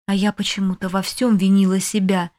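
usual speaking voice

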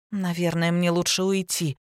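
plain reading voice

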